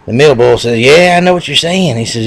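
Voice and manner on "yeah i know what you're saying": high, loud, eager agreeing; nervous agreement. Acted. Middle bull agreeing with the big bull, nervously. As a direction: middle bull voice pitched well up.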